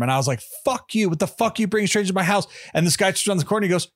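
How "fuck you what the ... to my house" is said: higher-pitched mock outrage; retold cussing tirade. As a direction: act out cussing someone out, without shouting. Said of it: "I was cussing up a storm".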